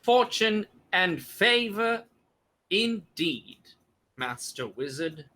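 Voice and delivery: sheriff talking through a forced grin; halting, with a strained smile. Acted. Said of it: "forces this weird smile".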